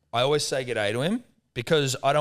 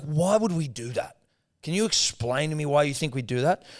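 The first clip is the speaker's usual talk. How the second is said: indignant challenge; 4 semitones higher than usual. Retold or imitated. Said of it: "I was like".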